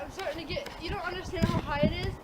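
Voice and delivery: nervous, shaky and hushed; quietly scared of the height. Real, not acted. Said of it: "scared of heights".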